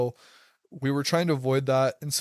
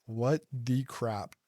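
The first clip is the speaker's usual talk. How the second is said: boggled disbelief; much slower than usual. Retold or imitated. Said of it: "my mind was completely boggled".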